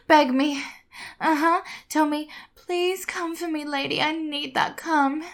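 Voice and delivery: firm, dominant commands; commanding. Acted. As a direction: order him to beg. Dominant commands, demanding begging.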